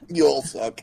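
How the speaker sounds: playful yelled insult; shouting. Real, not acted. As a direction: shout it at your friends. Mock insult to friends.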